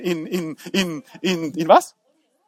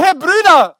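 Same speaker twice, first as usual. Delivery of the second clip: Joseph apologizing; 7 semitones higher, 4 dB louder than usual. Acted. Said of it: "Und denkst du".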